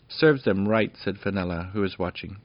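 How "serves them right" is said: pleased little princess. Acted. Fenella cheers the arrow hits.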